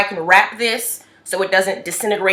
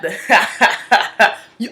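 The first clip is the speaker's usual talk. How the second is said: Denzel laugh; 4 semitones higher, 5 dB louder than usual. Retold or imitated. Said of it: "the Denzel laugh".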